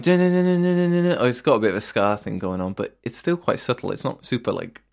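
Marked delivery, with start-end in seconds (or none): 0.0-0.6 imitated guitar chugging. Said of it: "by just going".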